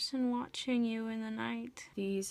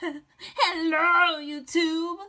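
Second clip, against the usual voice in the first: excited hello; 5 semitones higher, 7 dB louder, slower than usual. Real, not acted. Greeting viewers at channel start.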